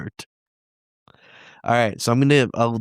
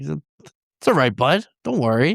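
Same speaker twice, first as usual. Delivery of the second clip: slow, higher-pitched soothing; reassuring; 4 semitones higher, slower than usual. Acted. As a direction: coax a scared little pet. Soothes the scared creature.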